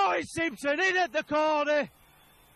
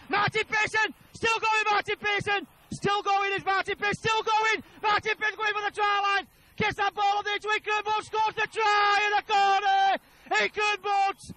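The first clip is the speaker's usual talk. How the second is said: excited shout; 4 semitones higher than usual. Real, not acted. Breakaway try commentary.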